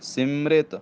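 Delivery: ਸਿਮਰਿਤ with a nasal ਸਿ and a little tension; ਸਿਮਰਿਤ said a touch firmly; slightly tight. Shown as a demonstration. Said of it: "ਥੋੜ੍ਹਾ ਜਿਹਾ ਕੱਸ ਕੇ ਬੋਲਣਾ".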